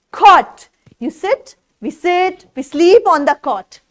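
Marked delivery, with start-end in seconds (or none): 0.1-0.7 cot said out loud as one word after sounding it out; loud blended word. Shown as a demonstration. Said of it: "C O T".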